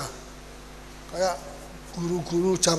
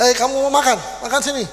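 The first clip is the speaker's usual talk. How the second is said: friendly invitation; 4 semitones higher, faster than usual. Retold or imitated. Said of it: "Jadi kita bisa".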